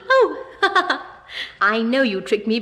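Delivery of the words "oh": bursting into a laugh; oh, then laugh. Pretend. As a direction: caught out by a trick, laughing. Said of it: "I can't help laughing".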